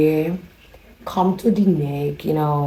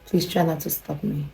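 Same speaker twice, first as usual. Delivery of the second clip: softer, imitated request; neighbor impersonation; 6 dB quieter than usual. Neighbor face to face with her visitor, soft. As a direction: say it quietly as the neighbor. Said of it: "her face will be like".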